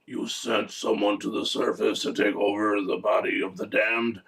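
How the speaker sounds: hammed-up dark lord questioning an underling; mock-solemn master's voice; Satan. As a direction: question him like a grand ruler of hell. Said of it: "then Satan turns around and says".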